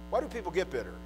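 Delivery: quiet, reflective rhetorical question; softly posed, falling away at the end. Real, not acted. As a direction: drop the volume and let the question sink in. Question repeated more softly.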